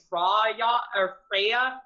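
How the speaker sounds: Freya said the Americanized way; the mistaken everyday Freya; wrong pronunciation. Shown as a demonstration. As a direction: say Freya with an Anglicized vowel, not the Norse one. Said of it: "which I should be saying".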